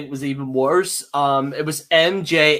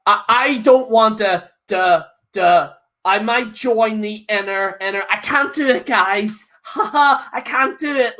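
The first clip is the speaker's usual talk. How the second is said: playful stammering put-on; lightly voiced Deadpool-style babble; mock random stammer. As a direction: act silly like a kids' show host. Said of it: "what Deadpool does".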